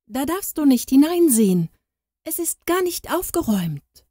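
mild stammer. A narrator's reading. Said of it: "stotterte die Nichte".

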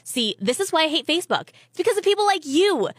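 indignant rant, hitting key words; acted, emphatic annoyance; exasperated scolding. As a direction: play a disgusted friend telling her off. Acted online quarrel, friend berates her.

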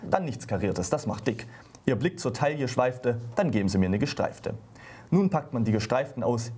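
lively comic poem reading with the quoted voices acted out; comic ballad read aloud for radio listeners; poem recitation. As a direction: recite it like a little stage piece, playing the wife's lines. Reads the poem Der Blusenkauf aloud.

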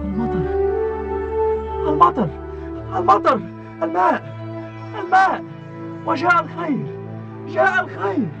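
high, excited cries of joy; joyful shouting. Acted. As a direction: cry out in delight at the rain. Rain arrives, joyful cries.

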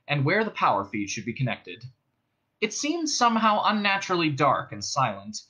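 measured audiobook narration; story narration. A narrator's reading. Narrator tells of Ford and the dead police ship, measured storytelling. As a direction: read it out as a storyteller. Reads a novel aloud.

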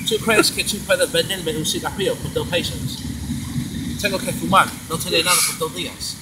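Spanish with a put-on British accent; Spanish in British character. Shown as a demonstration. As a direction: keep the British character while speaking Spanish. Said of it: "I have to sound like this".

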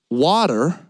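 Canadian accent. Shown as a demonstration. Imitating Canadian cafe customers, Canadian accent on "Water". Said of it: "They would say".

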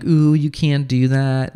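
mild mock scolding from a goody two-shoes. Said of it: "that they're like".

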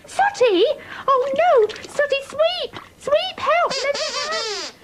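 high panicked calls for help; alarmed cries. Acted. Sue calling Sweep to help when Sooty sinks, alarmed.

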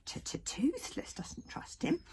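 high slow stammering dragon; stuttering little dragon. Acted. Toothless voice, stutter.

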